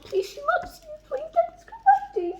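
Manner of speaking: high, anxious begging; anxious reader begging Dean; pleading. Real, not acted. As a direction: plead with him. Begging the character.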